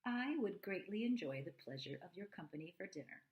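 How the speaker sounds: a touch of prim, formal politeness; very proper. Acted. Son inviting the robot, lightly proper and polite. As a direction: sound like a little gentleman at a fancy dinner. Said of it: "In a very proper voice".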